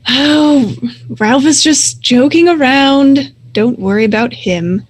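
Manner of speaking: lightly voiced wolf leader, smoothing things over; placating pack leader.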